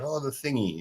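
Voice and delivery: retold daughter. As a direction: quote the daughter, lifting the pitch. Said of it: "You know, so she talks".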